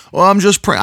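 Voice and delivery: high mock pious sigh; whiny sigh. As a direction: act helpless and pious. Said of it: "people say".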